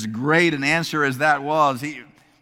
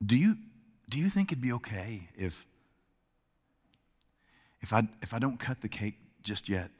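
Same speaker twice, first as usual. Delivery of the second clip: timid; 4 semitones lower, 7 dB quieter, faster than usual. Acted. Agnes asks timidly.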